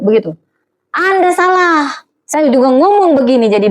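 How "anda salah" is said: ANDA SALAH high and stretched; emphatic rebuttal. Real, not acted. Preacher rebutting stereotypes about Batak people, emphatic ANDA SALAH. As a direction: pitch ANDA SALAH up, slow and firm.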